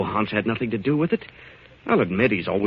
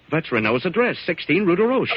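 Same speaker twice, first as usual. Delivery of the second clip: realization; 8 semitones higher than usual. Acted. Realizing the address is Renault's.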